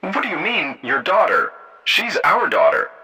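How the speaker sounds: high-pitched, indignant protest; offended woman objecting. A narrator's reading. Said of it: "Jenna protested".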